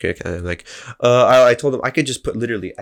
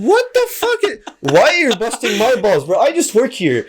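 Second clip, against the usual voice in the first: higher, louder exasperated retort; higher mock rant at the customer; retold outburst; 12 semitones higher, 4 dB louder than usual. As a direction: snap back at the rude customer. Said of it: "And I'm like".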